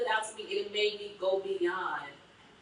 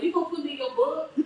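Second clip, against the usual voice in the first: laughing question; 7 semitones higher, 4 dB louder, faster than usual. Retold or imitated. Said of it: "I'm like".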